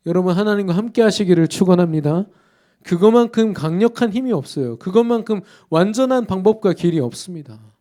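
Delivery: rising fervent sermon climax; full-force preaching. Real, not acted. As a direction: proclaim it with all your force.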